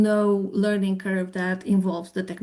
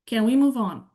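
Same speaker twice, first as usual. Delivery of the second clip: tune falls away on move; statement-like falling question; 3 semitones higher than usual. Shown as a demonstration. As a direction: let the question drop at the end. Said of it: "Number two".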